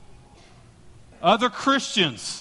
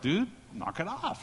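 low warning; 8 dB quieter than usual. Retold or imitated. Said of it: "the death stare".

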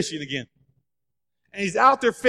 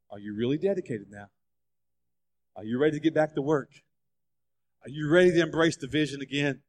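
earnest soft questioning; 7 semitones lower, 6 dB quieter than usual. Acted. Jesus asks Peter to recommit.

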